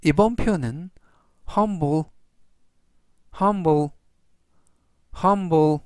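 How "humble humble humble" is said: humble said clearly three times; teacher modelling humble; careful pronunciation demo. Shown as a demonstration. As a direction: model the word humble for learners. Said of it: "이라고 발음하시면 되겠고요".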